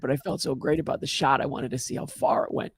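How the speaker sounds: put-on high little-kid voice telling the whole joke; toddler voice. Two-year-old Dan tells the golf course joke in a high toddler voice. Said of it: "picture two-year-old Dan telling this joke".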